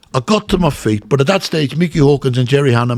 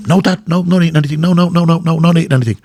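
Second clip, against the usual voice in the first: hasty denial; 5 semitones higher, faster than usual. Retold or imitated. Boy denying to his dad.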